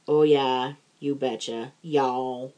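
Minnesota "you betcha" with a Southern "y'all" drawl tacked on; mock Minnesotan then a Southern twang on "y'all"; Southern Minnesota mix. Teasing her Southern friend's mashup catchphrase, mock accent. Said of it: "you've kinda modified it to".

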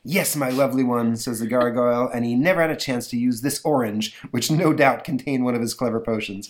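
lightly voiced gloating gargoyle; a hint of a sneering monster; villain gargoyle.

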